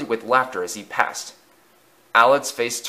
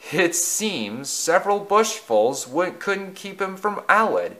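higher-pitched amused teasing; a touch of mirth, no real laugh; chuckling; 8 semitones higher, slower than usual. A narrator's reading. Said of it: "chuckled Edward".

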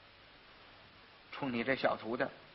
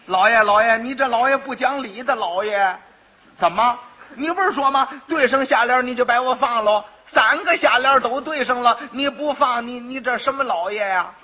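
indignant protest; 2 semitones higher, 3 dB louder than usual. Acted. Quack protests to magistrate.

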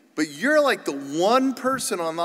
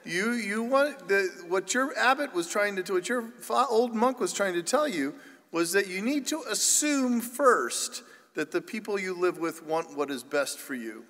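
nun quote; 4 semitones higher than usual. Retold or imitated. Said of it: "And she said".

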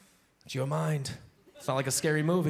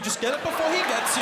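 high louder panicky repeat; frantic urging; 10 semitones higher, 4 dB louder than usual. Retold or imitated. Comic in dark room repeats the plea more frantically. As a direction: grab it now, panicking.

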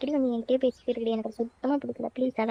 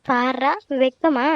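teasing; 4 dB louder, much slower than usual. Acted. Teasing a blushing friend.

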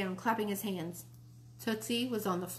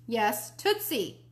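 louder; 2 semitones higher, 4 dB louder, slower than usual. Acted. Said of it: "Mom said louder".

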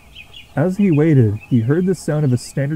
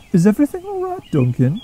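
concerned; 10 semitones higher than usual. A narrator's reading. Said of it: "she asked, concerned".

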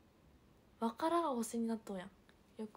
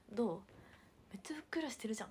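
mock teasing; faster than usual. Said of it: "って言われて".

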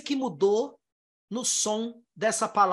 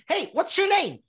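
natural speed; 6 semitones higher than usual. Shown as a demonstration. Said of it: "Tem filme que vão falar assim".

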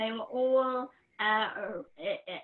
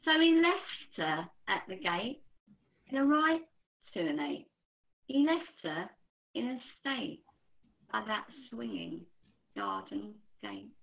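poem recital. Acted.

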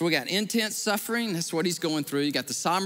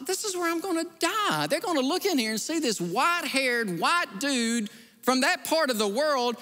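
high, panicked inner voice, slowing at the end; frightened thought blurted out high; retold panic; 8 semitones higher than usual. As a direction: terror of a stranded traveller. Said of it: "And I was like".

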